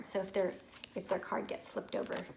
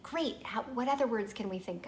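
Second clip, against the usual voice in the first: praising cheerfully; 3 semitones higher than usual. Shown as a demonstration. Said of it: "You get".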